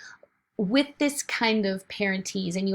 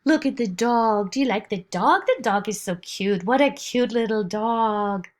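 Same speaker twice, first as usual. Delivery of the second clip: lightly sing-song, louder parentese; 5 dB louder than usual. Shown as a demonstration. Parent showing a baby the dog in sing-song. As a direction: talk to a baby about the dog. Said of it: "And so we will go".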